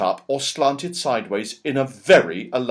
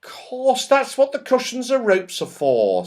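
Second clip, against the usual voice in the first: joyful; 14 semitones higher than usual. Acted. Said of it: "said Beth joyfully".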